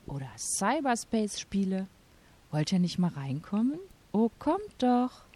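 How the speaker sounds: lightly voiced luring shopkeeper; silly clown. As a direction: sweet-talk the kids inside like a clown. Shop witch lures the kids.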